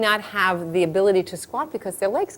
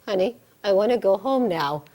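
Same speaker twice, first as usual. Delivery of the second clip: laboring woman pleading. Acted.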